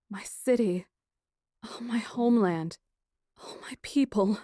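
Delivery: broken, whispered lament; tearful grief. Acted. Princess mourning her people, tearful whisper. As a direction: let it break into a whisper. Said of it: "My eyes filled with tears".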